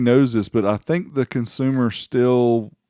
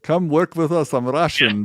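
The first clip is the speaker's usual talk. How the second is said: attempted Russian accent; 5 semitones higher than usual. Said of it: "I can't do the accent very well".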